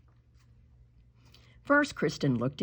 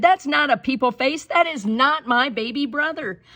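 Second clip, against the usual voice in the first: high, louder protest; indignant child; 8 semitones higher, 5 dB louder than usual. Acted. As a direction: insist it's not her brother. Kristen protests.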